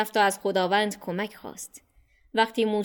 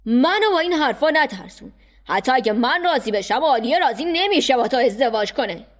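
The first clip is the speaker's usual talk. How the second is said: scornful, louder uncle brushing off the threat; dismissive uncle; 4 semitones higher, 4 dB louder than usual. Acted. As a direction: wave him off with contempt.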